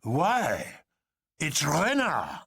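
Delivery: slow, a touch of a catch in the throat; mildly moved, slow; colonel, mildly moved, slowly. A narrator's reading. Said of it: "with a catch in his voice".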